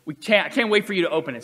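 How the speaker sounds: excited. Retold or imitated. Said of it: "he was super excited".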